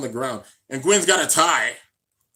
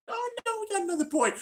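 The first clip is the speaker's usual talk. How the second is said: mocking the studio; 5 dB quieter, faster than usual. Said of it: "but you just decided".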